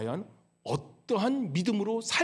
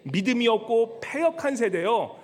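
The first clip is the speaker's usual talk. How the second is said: Jesus rebuking; 4 dB louder than usual. Acted. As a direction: lean on every word like a stern master. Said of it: "예수께서 대답하여 이르시되".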